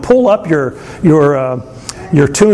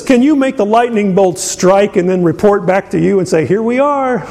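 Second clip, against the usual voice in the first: sarcastic; 4 semitones higher than usual. Retold or imitated. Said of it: "tinged with sarcasm".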